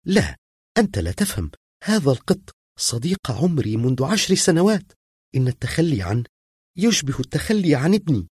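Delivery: firm refusal to give up her cat. A narrator's reading. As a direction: refuse flatly, standing her ground. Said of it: "قالت في حزم".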